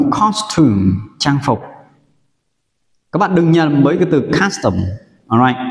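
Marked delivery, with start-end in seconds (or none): 0.1-0.9 "costume" with a long "oo" in the second syllable. Shown as a demonstration. Teacher explains the U in "costume", saying it as "oo". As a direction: say "costume" as COS-toom. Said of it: "U, chúng ta đọc là U".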